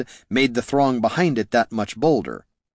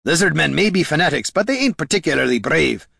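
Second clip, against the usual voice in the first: raised, projected voice; hollered; 6 semitones higher than usual. A narrator's reading. Gorm answering Niln amid the enemy, hollered. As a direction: holler back over the din. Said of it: "Gorm hollered back".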